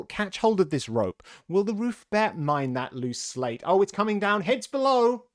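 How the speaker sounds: high, loud overlapping-crowd chatter; bustling workmen. A narrator's reading. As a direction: shout busy orders to one another, rising to alarm.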